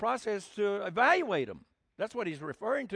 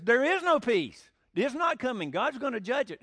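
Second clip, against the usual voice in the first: stern prophet warning; 5 semitones higher, 4 dB louder than usual. Retold or imitated. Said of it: "And he says".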